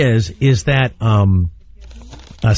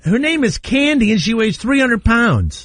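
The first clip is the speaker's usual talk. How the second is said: mocking high voice; 6 semitones higher than usual. Mocking a heavy anchorwoman.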